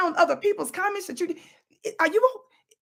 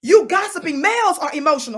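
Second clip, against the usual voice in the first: loud accusation; 7 dB louder than usual. Real, not acted. Accusing the brothers.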